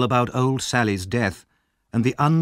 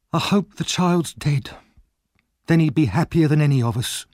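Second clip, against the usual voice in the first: bitter Nancy; 7 semitones higher than usual. Acted. Nancy bitterly wishing the boy dead. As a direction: wish it darkly.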